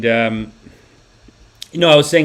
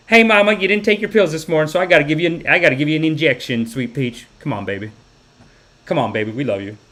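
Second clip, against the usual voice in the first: sweet nurse impression. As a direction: gently coax a patient with pet names. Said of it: "she's like".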